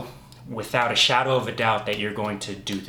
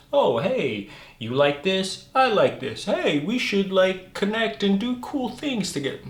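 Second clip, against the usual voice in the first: higher, gushing put-on voice; eager new friend; 8 semitones higher than usual. Mocking people who attract each other, higher eager voice. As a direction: gush like you just found your best friend.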